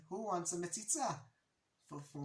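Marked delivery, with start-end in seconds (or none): 0.1-1.1 raised, lilting mock call-out; retold yell. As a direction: call it out, half yelling. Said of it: "and I yelled".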